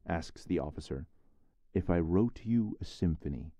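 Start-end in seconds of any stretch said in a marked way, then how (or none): 1.7-3.5 tinny pocket radio. Acted. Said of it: "sounds a crackling voice from the transistor radio".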